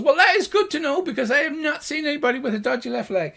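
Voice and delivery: high, loud gnome; gnomish voice. Acted. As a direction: report loudly in a tiny high voice. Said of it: "the two high-pitched gnomish voices".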